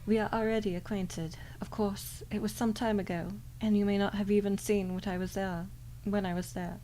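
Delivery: put-on British-accented demon; suave, lightly British-accented crow demon; Malphas. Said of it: "I'm giving a British accent".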